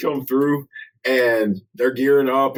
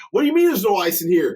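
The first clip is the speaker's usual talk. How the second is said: quick, higher mock complaint; indignant customer quote; 4 semitones higher, faster than usual. Retelling a customer's complaint about ice, mock-indignant. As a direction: rattle off an outraged objection.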